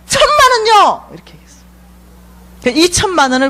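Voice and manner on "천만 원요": eager blurt. Retold or imitated. A daughter answering God instantly, high and eager. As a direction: shoot it out without thinking. Blurts savings amount without thinking.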